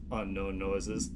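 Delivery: a scared caller drifting away; frightened caller. Acted. Caller in transcript read aloud.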